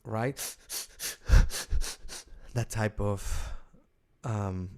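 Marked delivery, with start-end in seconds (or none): 0.4-2.5 rapid bursts of huffed breath; short, agitated snorting breaths; agitated nose huffing. Shown as a demonstration. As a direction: huff hard like someone fuming. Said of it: "then we get the af".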